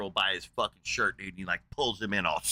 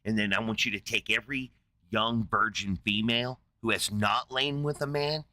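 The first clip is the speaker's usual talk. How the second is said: a hint of a furious Moses; mock furious menace; 2 semitones lower than usual. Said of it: "fucking furious".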